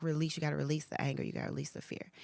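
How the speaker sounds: urgent, then fading into a whisper; hushed God. Retold or imitated. Retelling God's urging, trailing into a whisper. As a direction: press it, then let it drop to breath. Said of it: "he was like".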